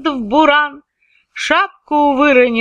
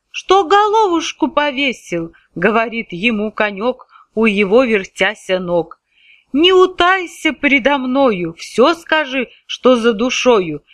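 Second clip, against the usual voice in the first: caring little horse; 3 semitones higher than usual. Acted. Конёк участливо расспрашивает Ивана.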